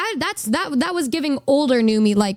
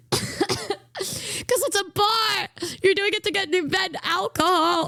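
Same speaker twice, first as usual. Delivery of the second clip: crying with laughter, very slow, higher; laughing; 6 semitones higher, 4 dB quieter, slower than usual. Real, not acted. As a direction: wheeze it out through laughter. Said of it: "laughing through words".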